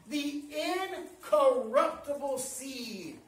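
"incorruptible seed" slow, broken into parts; emphatic repeat. Real, not acted. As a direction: spell out "in-corruptible seed" piece by piece. Preacher repeats key phrase slowly.

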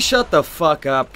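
slow, loud Cockney bark; mock British yell. Streamer yelling back at screaming enemies. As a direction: bellow it like an angry Brit.

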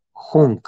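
Jung con jota suave, "xuŋ"; pronunciación del mantra. Shown as a demonstration. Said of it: "El mantra dice así". (Jung pronunciado "juung")

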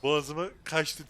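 choking on spit mid-laugh; coughing on saliva while talking. Real, not acted. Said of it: "Tükürüğüm mü boğazıma kaçtı".

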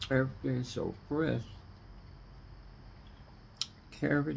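talking while crunching; crunching chips. Real, not acted. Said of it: "Can you hear me crunching?".

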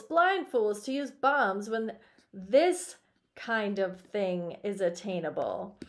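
animated read-aloud with leaning stresses; expressive story reading. A narrator's reading. Teacher reading a story to the class, expressive narration. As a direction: read it out with lively emphasis.

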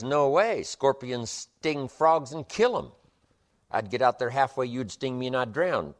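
frog refusing, loud and high, alarmed; a frog backing away in alarm. Acted.

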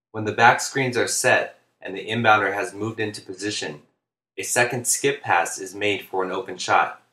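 steady, even monotone voice. Real, not acted. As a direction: read it clearly in a monotone. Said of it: "apologize for the monotone voice throughout the videos".

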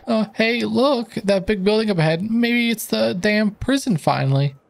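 game sidekick spotting the prison; character voice. Acted. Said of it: "nice voice acting stuff here".

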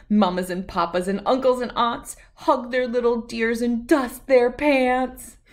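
lively singsong storybook read-aloud; reading to children. A narrator's reading. Host reading an alphabet book to young viewers, singsong and lively. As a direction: read it out to little kids with bounce.

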